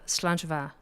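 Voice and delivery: "Slàinte mhath" said as SLAHN-juh VAH; demonstrating a toast. Shown as a demonstration. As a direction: model "Slàinte mhath" clearly for repeating. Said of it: "I'm gonna say".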